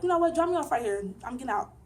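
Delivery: done with it, demanding out; mock angry "drop me off"; fed-up outburst. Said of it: "I'm just like".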